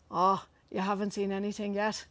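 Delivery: lightly imitated Cork accent. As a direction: do your best Irish shopkeeper from Cork. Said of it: "doing my best Cork accent".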